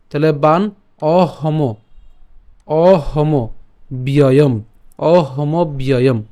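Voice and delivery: বান অহম then ব্যয়ম, slowly broken at the syllables; syllable-split demo. Shown as a demonstration. Teacher splits অহমব্যয়ম slowly for learners. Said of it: "পরবর্তী হ উচ্চারণ করব।".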